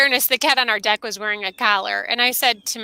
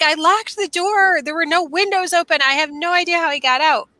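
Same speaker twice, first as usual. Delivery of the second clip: higher-pitched, mildly distraught son; beside himself; 6 semitones higher than usual. Retold or imitated. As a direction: act out a son protesting his innocence. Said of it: "My son's kinda beside himself".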